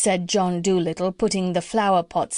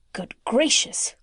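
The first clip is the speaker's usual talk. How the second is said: startled exclamation; 3 semitones higher than usual. Acted. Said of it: "cried the doctor".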